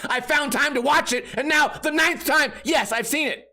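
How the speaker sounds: high, sputtering mock outrage; exasperated outburst. Fed up at being asked nine times, exasperated. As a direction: rant in high-pitched sarcastic disbelief.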